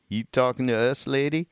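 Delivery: lightly imitating a gruff Southern man calling out; mock Southern bellow. Reading out a Southern stranger's retort, mild Southern bellow. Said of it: "a voice bellowed from behind me in a deep Southern accent".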